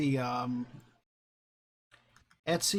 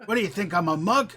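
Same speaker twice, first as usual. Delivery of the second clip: Cockney ghost; 5 semitones higher than usual. Acted. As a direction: pick a fight in a mock Cockney accent. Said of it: "the Cockney type".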